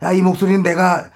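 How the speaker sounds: put-on gruff old actor grumbling; grumpy veteran actor voice; Oh Ji-myung impression. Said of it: "나 오지명이야".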